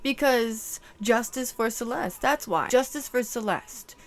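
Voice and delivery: loud defiant call for justice. Real, not acted. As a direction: stand your ground. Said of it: "defiant justice declaration".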